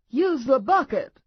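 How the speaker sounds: high, loud, urgent command; urgent order. A narrator's reading. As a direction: thrust the bucket at him, ordering. Wife shouts at sick husband.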